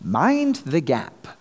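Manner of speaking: lightly imitated station announcement, slowly drawn out; recorded announcement. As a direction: mimic the recorded train voice a little, slowly. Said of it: "a recorded voice saying".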